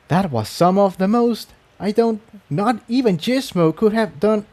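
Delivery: awed mare. A narrator's reading. Incendia voiced, stunned.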